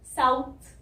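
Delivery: 'साउथ' as 'saa' gliding to short 'u'; pronunciation model. Shown as a demonstration. Teacher joins the sounds for learners, emphatic 'साउथ'. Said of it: "छोटी ऊ की sound".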